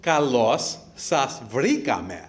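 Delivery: "Kalos sas vrikame" sounded out slowly, leaning on kalos; Greek response taught. Shown as a demonstration. Best man teaching guests the Greek reply, slow careful Greek. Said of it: "And the response is".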